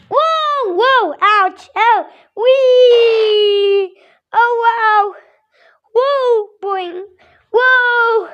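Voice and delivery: high, thrilled whoas and squeals; excited whoas. Pretend. Child voicing bouncing birds, high thrilled whoas. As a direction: ride the bounce with each whoa.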